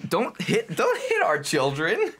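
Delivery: high, laughing mock scold; laughing mock protest. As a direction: laugh while guarding the belly.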